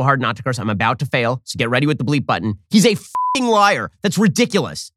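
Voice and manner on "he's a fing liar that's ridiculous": real exasperated swearing, slowed and pushed; cursing outburst. Real, not acted. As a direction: give in and swear, each word weighed down. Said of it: "I'm trying so hard not to curse".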